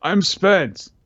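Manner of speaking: lightly voiced exhausted ghost; dying flame spirit. Kanjuro's flame reporting failure to Orochi, feeble. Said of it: "And it says".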